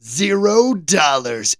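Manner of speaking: slow, stretched "Zero dollars" in disbelief; amazed repeat. Real, not acted. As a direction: drag it out, can't believe it's free.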